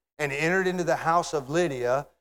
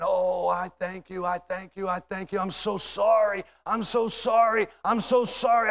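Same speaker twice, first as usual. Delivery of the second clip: thanks swelling into a higher, pleading apology; building grateful apology; 4 semitones higher than usual. Acted. Lydia embracing beaten Paul and Silas, grateful apology. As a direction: repeat it with mounting feeling. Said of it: "that woman wrapped her arms around their neck and started saying".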